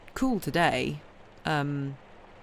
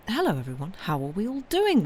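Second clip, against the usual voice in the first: sing-song greeting; 5 semitones higher than usual. Pretend. Greeting to chat, rising playfully.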